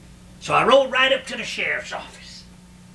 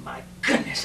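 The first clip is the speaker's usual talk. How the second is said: a breathy, unvoiced "my goodness"; hushed; 6 dB quieter than usual. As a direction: let "my goodness" fall to a near whisper. Sheriff stunned by the body.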